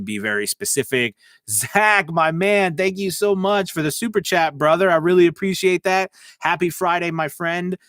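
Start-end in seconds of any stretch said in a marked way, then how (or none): 1.5-7.8 higher and louder, pumped thanks to a fan; big hyped-up super chat thank-you; excited shout-out. Real, not acted.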